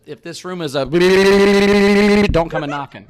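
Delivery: laughing through the words; slow, giggling read. Real, not acted. Reading the joke door sign.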